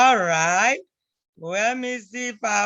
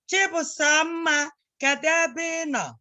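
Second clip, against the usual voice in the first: calling out; 8 semitones higher than usual. Retold or imitated. Parent calling out to find the child. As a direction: call the child's name from another room. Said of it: "Chukwudi called your mommy or daddy".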